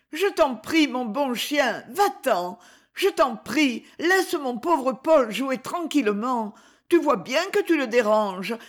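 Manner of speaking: put-on a little boy begging the dog, then discouraged; pleading discouraged. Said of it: "ajouta-t-il découragé". (petit garçon suppliant, puis découragé)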